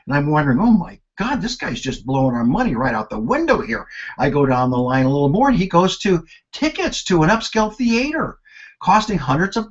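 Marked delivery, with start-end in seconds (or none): 0.6-3.9 retold alarm. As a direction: sound scandalised at the bill.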